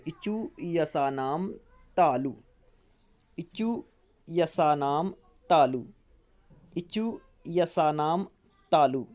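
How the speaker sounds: slow chant with a clipped, punched तालु at the end; rhythmic sutra drill. Shown as a demonstration. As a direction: drill it, landing hard on तालु. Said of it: "एक बार में आपको याद हो जाएगा".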